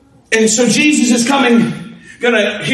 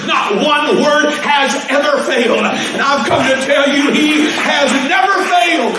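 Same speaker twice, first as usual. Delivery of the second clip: full-force preaching; 2 semitones higher than usual. Acted. Preaching climax.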